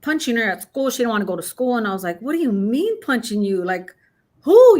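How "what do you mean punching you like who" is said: mother's sharp disbelieving "who?"; shocked. Retold or imitated. Mother shocked at bullying news.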